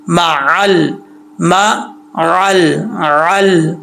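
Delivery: मअल with a distinct throaty ain before "al"; clear ain. Shown as a demonstration. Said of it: "आइन को clear करना है". (मअल में आइन साफ़)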